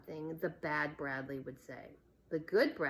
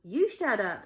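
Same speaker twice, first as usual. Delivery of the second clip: defiant; 3 semitones higher, 7 dB louder than usual. A narrator's reading. Melinda fights back.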